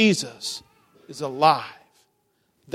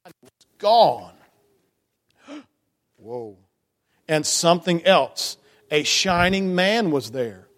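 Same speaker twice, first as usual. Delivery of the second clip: story narration. A narrator's reading. Reading the Easter story aloud.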